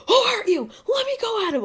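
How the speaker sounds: protective outburst. Retold or imitated. Friend ready to fight whoever hurt you, loud mock outrage. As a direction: play the hothead ready to fight. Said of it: "if somebody hurts you".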